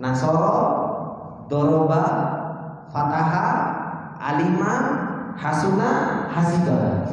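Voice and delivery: drilling the wazan list; reciting examples. Shown as a demonstration. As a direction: recite the classic examples one by one. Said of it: "itu contohnya ini".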